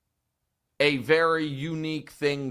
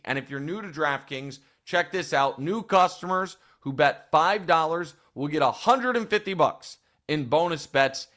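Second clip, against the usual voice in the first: emphatic sponsor offer; promo code read; 2 semitones higher than usual. Real, not acted. Podcast host giving new customers a code, promotional read.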